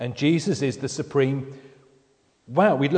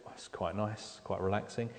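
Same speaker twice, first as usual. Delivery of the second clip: soft, much quieter, lazily content; mock contented frog; 4 semitones lower, 13 dB quieter than usual. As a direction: play the frog sinking happily into warm water. Frog voiced in the boiling story.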